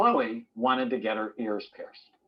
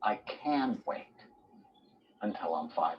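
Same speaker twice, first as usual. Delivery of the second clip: calm acceptance; 5 semitones lower, 6 dB quieter than usual. Retold or imitated. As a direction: let the child's wish go, quiet and unhurried. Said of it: "what's the opposite of".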